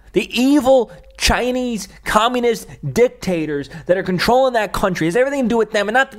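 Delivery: real anger boiling over; angry rant. Real, not acted. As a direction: tear into them, fed up. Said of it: "Lots of anger".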